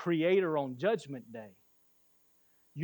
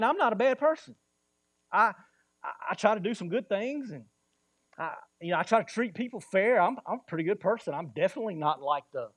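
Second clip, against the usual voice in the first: lightly acted defensive protest, pitched up; a hint of hedging self-defence; self-justifying; 3 semitones higher than usual. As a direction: plead your own decency, halting. Voices a self-justifying person.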